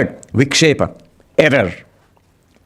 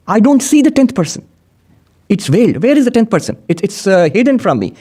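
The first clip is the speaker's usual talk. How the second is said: puzzled seeker; 5 semitones higher than usual. Acted. Voicing seeker who cannot see.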